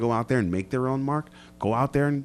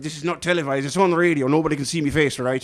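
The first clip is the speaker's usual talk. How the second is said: put-on Irish accent; 4 semitones higher than usual. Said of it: "you just became Irish there".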